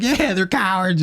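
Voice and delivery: high-pitched echo of a heckle; retold jeer. Answering a fellow protester's taunt, retold jeer. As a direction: join the jeer, pitched right up. Acts himself joining the jeer.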